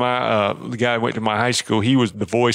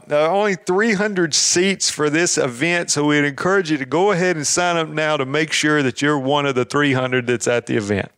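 promo voice; 3 semitones higher than usual. Shown as a demonstration. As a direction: sell it like an ad spot. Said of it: "You wanna remind them".

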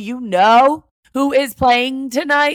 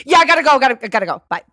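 louder rushed "gotta go" brush-off; mock hurried goodbye; 3 semitones higher, 5 dB louder, much faster than usual. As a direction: hurry off the phone, hammed-up. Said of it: "And then maybe".

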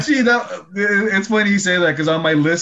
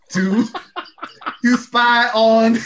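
slow, higher wizard voice; a slow, higher halfling wizard; character voice; 7 semitones higher, slower than usual. Acted. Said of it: "It's distinctive".

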